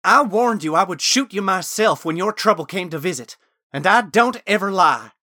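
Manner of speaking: high, loud, hard warning; narrated woman's forceful threat; angry threat. A narrator's reading. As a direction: threaten him at the top of the voice. Gwen threatens to shoot him.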